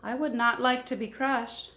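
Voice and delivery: high little mouse pleading; a tiny creature asking not to be squashed; lightly voiced mouse; small mouse voice. Mouse speaks from the snow.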